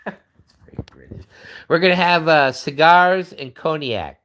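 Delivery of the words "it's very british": whispered, much softer aside; soft mock-conspiratorial whisper. Shown as a demonstration. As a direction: breathe it as a secret joke. Joke then whispered repeat.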